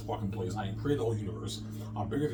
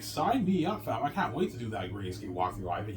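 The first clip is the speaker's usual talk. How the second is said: excited Rabbit. Retold or imitated. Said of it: "he's all excited".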